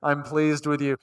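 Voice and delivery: deep, slow, booming Morgan Freeman-style voice of God. Retold or imitated. Preacher voicing God from the heavens in a booming deep voice. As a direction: boom it out like a movie narrator playing God. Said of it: "in a Morgan Freeman voice".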